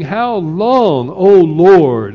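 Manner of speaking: a loud lament, half-voiced by the preacher; crying out loud. Preacher voicing martyred souls crying out, moderately loud. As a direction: lift it into a cry to heaven. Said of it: "crying out in a loud voice".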